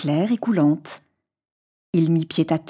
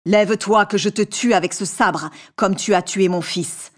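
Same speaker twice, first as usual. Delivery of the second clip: a hint of a menacing giant, lightly voiced; mild terrible genie. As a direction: threaten him as a vengeful genie, only a touch darker. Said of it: "d'un ton de voix terrible".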